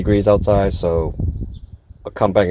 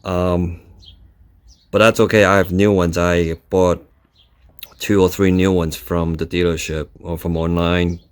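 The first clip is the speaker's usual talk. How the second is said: talking while lying under a car; strained, working under the car. Real, not acted. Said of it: "I'm under the car by myself".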